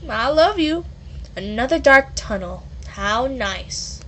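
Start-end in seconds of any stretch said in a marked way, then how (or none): 1.3-4.0 dry, deadpan sarcasm; flat sarcastic remark. Acted. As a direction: lay the sarcasm on thick. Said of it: "You see how I emphasize the sarcasm".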